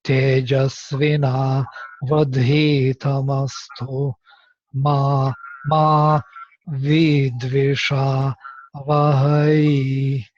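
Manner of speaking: slow chanted Sanskrit recitation; Vedic recitation. Shown as a demonstration. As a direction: recite the Vedic verse slowly. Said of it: "force me to read something I never read".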